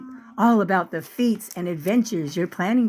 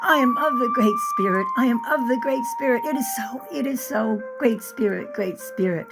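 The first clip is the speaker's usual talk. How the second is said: higher, quick repeated prayer; fervent prayer; 5 semitones higher than usual. Acted. Girl praying to the Great Spirit, fervent. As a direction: recite it like a vow.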